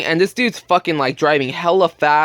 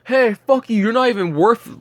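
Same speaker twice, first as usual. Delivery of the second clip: higher-pitched mock outrage; mock angry; 6 semitones higher than usual. Angry kids cursing out the gate worker, mock angry. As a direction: imitate someone mad at being turned away. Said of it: "they're getting hella mad".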